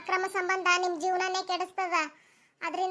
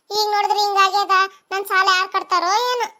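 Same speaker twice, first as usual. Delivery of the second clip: loud complaint; 7 dB louder than usual. Acted. Lender panics about her loan.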